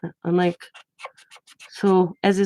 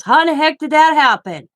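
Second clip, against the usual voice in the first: stunned disbelief; 8 semitones higher, 6 dB louder than usual. Retold or imitated. Husband's stunned reaction to pregnancy news.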